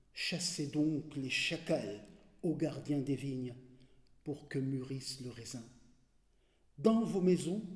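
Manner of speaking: measured reading in short phrases with long pauses; poem recitation. Acted. Reader sharing Darwish's poem De l'espoir, measured poetry recitation. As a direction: let each line fall away into silence.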